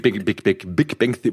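tipsy stumbling over the words. Real, not acted. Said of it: "boah, ich bin besoffen".

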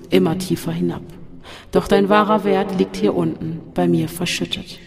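urging demon voice. Acted. The voice urges Robert to take the last step, coaxing. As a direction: coax him over the edge.

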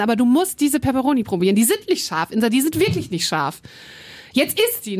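mildly insistent coaxing; retold badgering that rises at the end; imitated nagging. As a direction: keep pushing, retelling a pestering friend. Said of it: "hat mich so richtig genervt".

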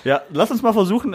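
laughing. Real, not acted. Laughing while proposing the call.

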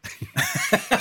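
high breathy laugh bursting out; burst of laughter. Real, not acted. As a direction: laugh at the joke. Laughing about Kubach sounding normal. (kurzes Auflachen)

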